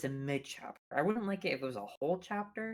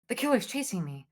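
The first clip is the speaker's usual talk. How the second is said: Meg voice line; 6 semitones higher than usual. Retold or imitated. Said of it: "Meg's voice".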